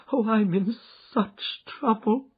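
high, loud, slow wail of distress; crying out in distress. Acted. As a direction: break down and plead. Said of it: "she cried".

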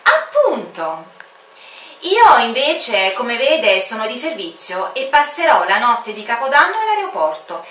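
half-threat to keep him company; proud stubborn official voice; dutiful commander. Acted. Commander explains his night duty.

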